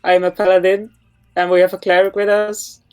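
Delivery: calling out. Acted. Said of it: "try to call out one more time".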